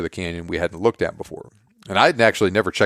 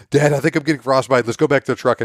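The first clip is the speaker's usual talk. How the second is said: put-on higher whining child voice; mock the son's whine; whiny kid; 5 semitones higher than usual. Dad mimicking his son's whining, higher.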